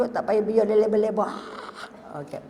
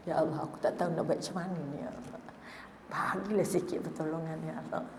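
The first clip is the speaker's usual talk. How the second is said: desperate prayer; 6 semitones lower, 14 dB quieter than usual. Retold or imitated. Panicked private prayer retold.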